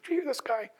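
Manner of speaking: hushed, indignant rumblings behind someone's back; grumbling disciples. Acted. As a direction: grumble under your breath about those two. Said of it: "you can almost hear the rumblings".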